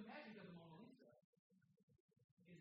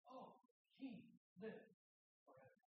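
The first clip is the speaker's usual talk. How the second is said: calm reverent greeting; 4 semitones higher than usual. Retold or imitated. Daniel greeting the king calmly from the den, reverent. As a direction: bless the king gently, without bitterness. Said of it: "Daniel's attitude".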